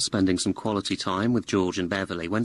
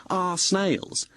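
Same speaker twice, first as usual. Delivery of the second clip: higher, affronted repeat; indignant echo; 8 semitones higher than usual. Acted. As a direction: throw the phrase back in disbelief. Indignantly echoes her claim of sharing.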